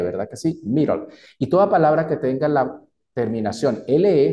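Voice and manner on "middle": "Middle" with a quick tapped R, like MI-rol. Shown as a demonstration. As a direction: flap the D in "Middle". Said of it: "ahí escuchan es una R".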